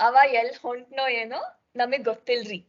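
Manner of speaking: lightly done North Karnataka Kannada, quick; a mild hint of a North Karnataka speaker; North Karnataka accent. Shown as a demonstration. Teacher contrasting it with the South, a mild North Karnataka accent. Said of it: "similar to how North Uttar Karnataka people would speak".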